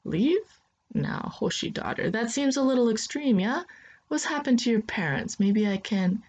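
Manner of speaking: put-on a startled old uncle, half soothing.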